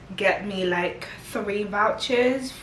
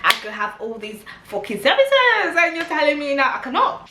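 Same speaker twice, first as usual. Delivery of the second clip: fast, higher, louder outraged retort; going crazy; 5 semitones higher, 3 dB louder, faster than usual. Retold or imitated. Quoting herself to the airport clerk, outraged and fast. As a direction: fire back at the clerk in disbelief. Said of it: "I was going crazy".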